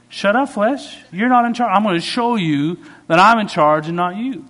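high, loud, commanding rebuke; mock scolding. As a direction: put an unruly underling firmly in its place. Acted scolding of hungry flesh.

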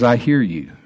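slow prophetic declaration; solemn voice of God. Acted. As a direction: pronounce it like a gentle command. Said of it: "He says".

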